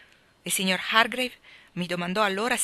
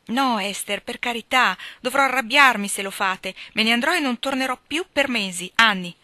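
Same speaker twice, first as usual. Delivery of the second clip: louder and higher, urgent pleading; alarmed protest; 4 semitones higher, 6 dB louder than usual. Acted. Helen begs Esther not to call Walter, loud urgent protest. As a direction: stop her before she calls him, loud and pitched up.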